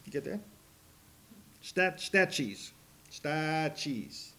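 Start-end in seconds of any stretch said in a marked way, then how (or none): 1.6-4.3 "Stachys" drawn out slowly, first vowel as in "stat"; pronunciation demo. Shown as a demonstration. Preacher showing congregation how to say "Stachys", slow STAT-cheez. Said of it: "that's how you say that word".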